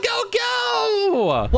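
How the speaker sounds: high frantic go go go; urgent shouting. Acted. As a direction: hurry everyone out. Fleeing the skeleton.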